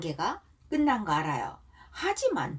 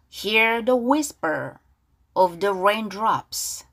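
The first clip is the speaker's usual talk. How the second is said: slow, drawn-out model reading; much slower than usual. Shown as a demonstration. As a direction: lay it out gently for students to echo. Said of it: "가사 발음 따라볼게요". (크고 아주 느리게 늘여서)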